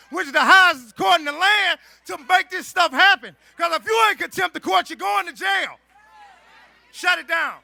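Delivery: building to a loud rally shout. Real, not acted. Rally speaker firing up crowd.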